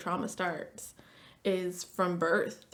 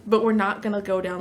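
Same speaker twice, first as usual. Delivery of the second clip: laughing reassurance; 3 semitones higher, 11 dB louder than usual. Retold or imitated. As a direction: laugh it off while steadying her. Therapist retells her own reply.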